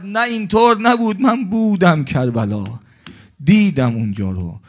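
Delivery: high, loud cry of protest; shouting. Acted. The jinn shouts back at the preacher, high and loud. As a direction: cry out in denial. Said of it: "زعفر جنی داد زد".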